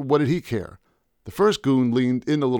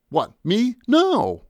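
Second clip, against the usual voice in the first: much higher, quick nervous plea; pleading; 12 semitones higher, 4 dB louder, much slower than usual. Acted. Painter to the goons, panicked plea. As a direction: beg them, panicked. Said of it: "I quickly pleaded".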